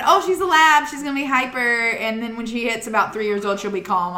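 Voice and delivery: a hint of a breezy know-it-all, fading back down; know-it-all advice. Friend mocking everyone's advice about labs, mock breezy confidence. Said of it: "'Cause everybody said".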